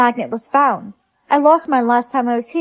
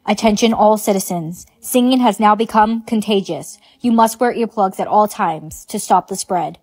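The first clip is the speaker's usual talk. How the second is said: official announcement; 3 semitones lower than usual. Acted. Public warning announcement.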